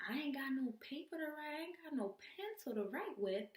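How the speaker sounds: high, drawn-up mock complaint; comic wail. Stuck taking a number without paper, comic wail. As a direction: play up the helplessness in a high voice.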